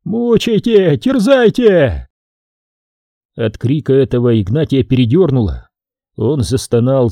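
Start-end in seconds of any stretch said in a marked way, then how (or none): 0.0-2.1 high, drawn-out wail; high-pitched anguished wail; wailing cry. A narrator's reading. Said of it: "Из телеги вопль".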